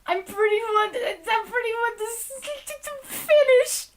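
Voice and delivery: giggling while talking; high, laughing through the words. Real, not acted.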